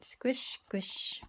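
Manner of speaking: breathy whispered brush sound; whispered squish. A narrator's reading. Narrator voicing the paintbrush for the children, whispered. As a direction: whisper it like a soft wet brush stroke.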